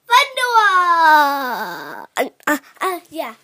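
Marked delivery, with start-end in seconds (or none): 0.1-2.1 drawn-out shout. Real, not acted. Child exclaims favorite frosting.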